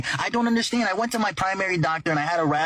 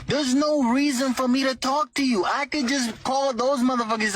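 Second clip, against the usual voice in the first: slow, higher, exasperated telling-off; exasperated rant; 5 semitones higher than usual. Retold or imitated. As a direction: spell out every word, fed up with the doctor. Telling off his doctor, retold.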